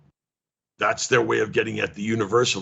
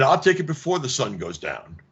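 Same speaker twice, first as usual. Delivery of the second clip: ordinary delivery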